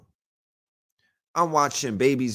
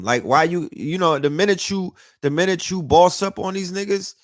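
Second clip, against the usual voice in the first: ranting. Retold or imitated. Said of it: "'cause it's like".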